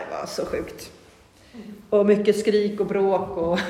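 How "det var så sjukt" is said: whispered. Real, not acted. Recalling the jealousy chaos.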